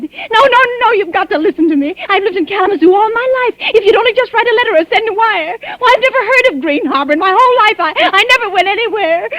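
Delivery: frantic, breathless insistence; desperate plea. Acted. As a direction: beg him to listen, close to panic.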